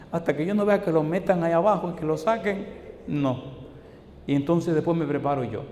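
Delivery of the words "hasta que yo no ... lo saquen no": higher, louder imitation of insistence; insistent mock refusal. Preacher imitates doubting woman demanding proof of baptism, insistent. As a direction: push the retold refusal, raised and firm.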